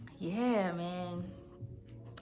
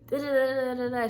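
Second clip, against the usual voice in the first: mock nagging babble; 5 semitones higher, faster than usual. Daughter mimicking her mom going off in the car, mock rant. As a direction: rattle off nonsense like a scolding mom. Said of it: "My mom going off".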